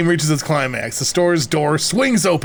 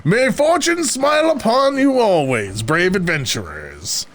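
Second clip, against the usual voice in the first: mysterious stranger voice; 6 semitones higher, slower than usual. Acted. Stranger's farewell blessing.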